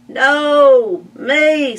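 high, loud pig cutting in; squabbling pig. Acted. Second pig claiming the bath, loud high squabble. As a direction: snap back like a greedy pig. Pigs argue over bath.

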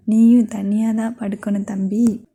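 whispered mock warning; unvoiced teasing jab at a little brother. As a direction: tease him under your breath.

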